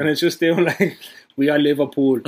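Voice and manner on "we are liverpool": mock-solemn German accent, slightly lower; thick German accent. Friend imitating the club video's manager, in a thick German accent. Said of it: "the biggest German accent you can find".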